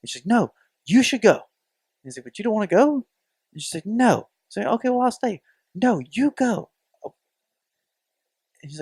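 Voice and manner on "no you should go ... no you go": mock girlfriend. Acted quarrel, girlfriend insisting.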